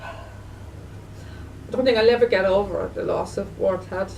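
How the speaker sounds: slow, heavy with real grief; grieving. Real, not acted. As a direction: drag the words out in sorrow. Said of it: "sorry, I'm emotional here now".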